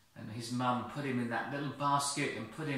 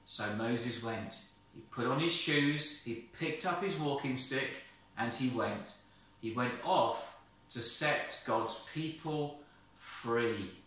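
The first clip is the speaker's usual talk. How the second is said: storybook ending. A narrator's reading. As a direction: wind the story down gently. Story closing read aloud.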